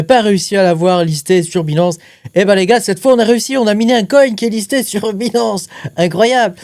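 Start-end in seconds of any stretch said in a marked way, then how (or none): 2.3-6.6 higher-pitched, excited boast; thrilled announcement. Real, not acted. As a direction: share a win with the gang, laugh creeping in. Annonce triomphale du listing. (annonce enthousiaste, voix qui monte)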